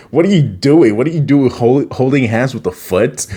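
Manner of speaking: high-pitched acted scolding; mock indignant confrontation. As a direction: demand an answer as if scandalized. Acting Raph confronting Leo.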